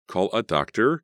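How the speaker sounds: high, loud scream for help; panicked call, high and loud. Acted. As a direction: shriek for a doctor in panic. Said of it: "Carrie screamed".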